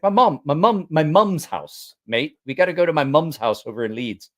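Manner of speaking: insistent, roughly imitated British accent; attempted British accent. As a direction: correct yourself in a mock British accent. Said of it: "can't do a British accent".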